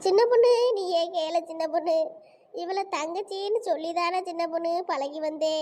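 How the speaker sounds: mildly whimpering grievance; tearful appeal. Acted. Woman appealing to Chinna Ponnu, mildly tearful. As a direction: plead your hurt, half crying. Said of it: "அதுக்கு எதுக்கு நடு ரோட்ல கிடந்து அழுறிய?".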